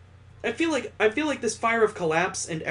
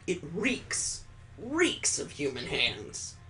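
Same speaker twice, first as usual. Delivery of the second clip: grim low detective; 5 semitones lower, 6 dB quieter, slower than usual. Acted. Dad voiced in grim detective tone.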